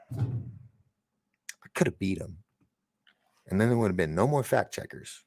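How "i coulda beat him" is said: mock tough boast. Boastful aside in put-on voice.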